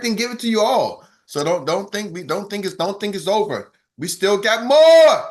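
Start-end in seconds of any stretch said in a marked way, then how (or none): 4.0-5.2 much louder and slow; emphatic promise. Real, not acted. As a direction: punch out each word like a promise. Hype host teasing more content.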